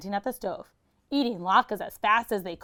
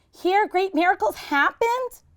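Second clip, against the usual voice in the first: much higher, questioning; unsure guess; 11 semitones higher, 4 dB louder than usual. Acted. Herschel guessing the words, high and unsure. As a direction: try it hopefully.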